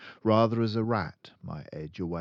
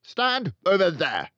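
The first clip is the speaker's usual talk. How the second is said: loud, high command; barked order; 13 semitones higher, 11 dB louder than usual. Acted. Headmistress ordering the boy aside, in a loud order. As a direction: order him aside sharply. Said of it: "the Trunchbull ordered".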